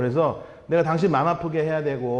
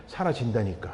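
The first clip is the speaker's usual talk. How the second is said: soft insistence; 8 semitones lower, 6 dB quieter than usual. Acted. Preacher insisting softly.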